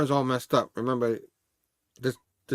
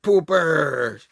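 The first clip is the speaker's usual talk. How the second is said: mock crying; 4 dB louder than usual. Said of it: "So you see him crying".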